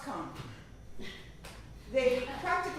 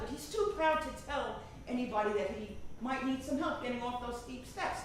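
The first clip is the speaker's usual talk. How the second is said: normal talking voice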